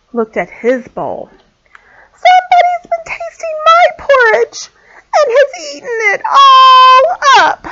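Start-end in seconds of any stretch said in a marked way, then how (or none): 2.1-7.7 very high, wailing little bear; wee little voice. A narrator's reading. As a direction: cry it out like a tiny upset cub. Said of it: "cried the wee little bear in his wee little voice".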